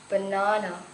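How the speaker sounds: "banana" stressed on the middle NA; stress on second syllable. Shown as a demonstration. Teacher giving a word-stress example, "banana" stressed on second syllable. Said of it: "Banana has stress on the second syllable".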